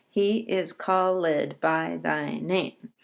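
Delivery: called said in two syllables, call-ed, slowly. Shown as a demonstration. Teacher showing students how called must scan, slow and careful. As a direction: stretch called into call-ed to fit the meter. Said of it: "Now we have to say called".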